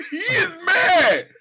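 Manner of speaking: high, slow, cracking-up yell; laughing shout. Real, not acted. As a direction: shout it through helpless laughter. Cracking up at friend's rant.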